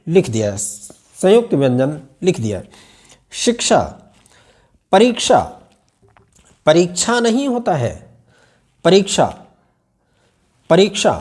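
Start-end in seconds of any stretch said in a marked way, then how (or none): 3.3-11.1 each word with a light क and a retroflex श; careful क्ष. Shown as a demonstration. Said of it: "अंत में श आना चाहिए". (शब्द अलग-अलग, क्ष साफ़ बोलते हुए)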